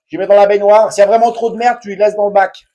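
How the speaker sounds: loud yelling. Real, not acted. Tutorial host explaining to viewers where the muck goes, yelling. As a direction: yell the instructions out over the job. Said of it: "désolé si je gueule".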